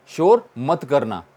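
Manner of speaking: slow, deliberate teacher repeat of शोर मत करना. Shown as a demonstration. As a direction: spell out शोर मत करना slowly for the class.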